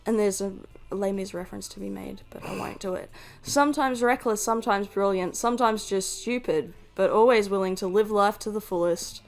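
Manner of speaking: dramatic storybook narration; story narration. Acted. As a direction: read it like a game's opening narration. Reads game narration aloud.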